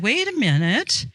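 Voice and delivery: lightly acted husband laying it out; indignant husband. Husband telling wife there's no room for others, indignant. Husband objects to wife's boyfriends.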